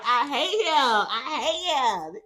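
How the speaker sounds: slow, loud, high laughing I hate him; laughing exasperation. Real, not acted. Vlogger laughing about the pushy man. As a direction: drag it out while cracking up.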